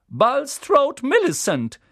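loud, high roll call. A narrator's reading. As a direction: call the name across the hall. Teacher calls out names. (laut aufgerufener Name)

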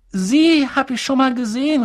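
put-on high-pitched boyish exclamation; calling out. A narrator's reading. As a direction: cry out in sudden recognition. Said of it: "rief Harry".

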